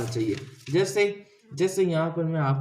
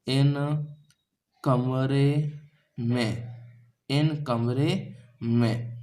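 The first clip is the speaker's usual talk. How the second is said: slow wrong translation; much slower than usual. Shown as a demonstration. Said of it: "गलत है".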